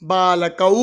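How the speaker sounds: बालकौ ending in an "au" glide; बालकौ as "baa-la-kau"; model pronunciation. Shown as a demonstration. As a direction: sound out बालकौ for pupils to copy. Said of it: "तो कैसे बोलेंगे".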